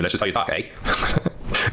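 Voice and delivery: put-on slow, drawn-out Canadian accent; gentle Canadian accent with a long eh; mock Canadian accent. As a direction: tease a viewer in a lightly put-on Canadian accent. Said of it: "I'm not making fun of you".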